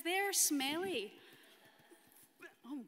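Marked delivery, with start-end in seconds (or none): 0.0-1.1 higher, louder and slow, full of disgust; disgusted wee boy. Acted. Storyteller voicing boy's disgust at girls, loud and drawn out. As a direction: drag it out like a child going yuck. Boy refuses to share sweets.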